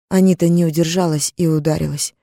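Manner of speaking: ordinary delivery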